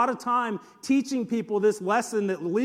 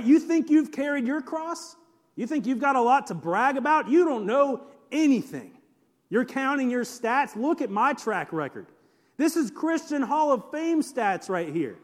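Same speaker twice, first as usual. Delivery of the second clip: bragging challenge, pitched up; Paul; 4 semitones higher than usual. Retold or imitated. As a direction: imitate a one-upper boasting of his record. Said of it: "that's kinda how Paul sounds here".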